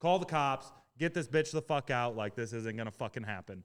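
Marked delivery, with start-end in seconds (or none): 0.0-2.2 mock all-out enraged screaming, high-pitched and furious. Retelling calling for the cops after being assaulted in a bar, retelling a scream. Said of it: "I'm screaming at the top of my lungs".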